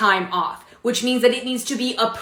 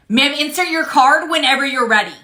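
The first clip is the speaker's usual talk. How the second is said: firm and loud; 4 semitones higher, 4 dB louder than usual. Acted. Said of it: "Who are you getting loud with?".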